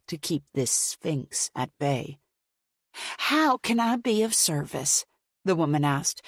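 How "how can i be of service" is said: dismissive. A narrator's reading. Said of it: "indicating she did not believe she could be".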